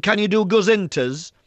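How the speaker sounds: a hint of an eager infant; little girl. Little girl voiced in story.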